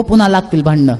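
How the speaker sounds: a hint of mock concern on पुन्हा लागतील भांडणं; low teasing warning, पुन्हा leaned on; sly provoking. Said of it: "मग तो मुद्दाहून त्याला म्हणतो". (पुन्हा वर हलका जोर, चिथावणीखोर)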